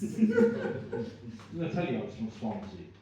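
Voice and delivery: laughing, drawn-out repeat; slow laughing repeat. Shown as a demonstration. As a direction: laugh through it slowly.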